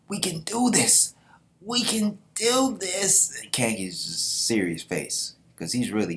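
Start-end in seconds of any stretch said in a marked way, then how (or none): 0.1-1.1 high, loud pep-up for the troops; rallying cry. Acted. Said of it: "And he's like". 1.6-3.4 even higher, very slow, stretched out; drawn-out rallying cry. Acted. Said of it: "And he's like".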